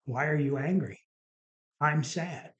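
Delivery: understated imitation of a sad wife; retold sadness. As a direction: answer back as the hurt wife, only a touch of sadness. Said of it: "crying and, you know, and sad".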